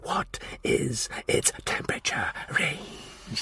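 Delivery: slow, soft whispered hiss. A narrator's reading. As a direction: hiss the question coldly. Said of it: "he hissed".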